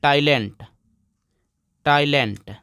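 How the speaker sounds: "टाइलेंट" repeated as a model word, falling; pronunciation demo. Shown as a demonstration. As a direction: drill "टाइलेंट" with a pause after it. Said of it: "क्या पढ़ते हैं दोस्तों?".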